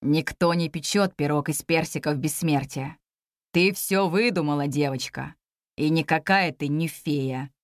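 low, mocking commander voice. A narrator's reading. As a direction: sneer down at the girl. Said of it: "насмешливый голос".

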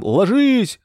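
высокий громкий крик; выкрикнуть команду резко и высоко; loud yell. A narrator's reading. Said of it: "с громким криком". (бросая гранату, кричит громко)

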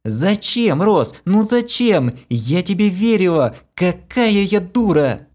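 high, loud, anguished; tearful reproach. A narrator's reading. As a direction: cry out in betrayed grief. Kira weeps, betrayed.

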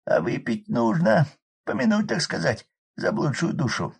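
high loud rough village man; hoarse peasant shout. Acted. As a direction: bellow over the roaring fire. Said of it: "пробурчал".

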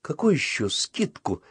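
high-pitched, incredulous questions; amazed. A narrator's reading. Boy hears talk of a discount, amazed. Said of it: "изумился Татушкин".

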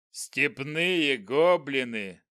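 slow scornful goblin voice; dark lord. Acted. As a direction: sneer it like a giant goblin. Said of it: "громогласно произнёс он".

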